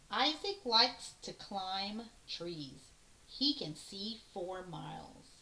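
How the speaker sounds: slow, clear read-aloud to the class; teacher reading a picture book aloud; reading aloud to children. Shown as a demonstration. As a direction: read the line slowly for kids to hear. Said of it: "I'm just gonna read this line".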